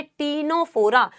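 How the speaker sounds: "टीनोफोरा" begun on a T, "tee-no-FO-ra"; silent C. Shown as a demonstration. Teacher modelling pronunciation for students, "टीनोफोरा" with silent C. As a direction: pronounce "टीनोफोरा" with no C before the T. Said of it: "इसका pronunciation है".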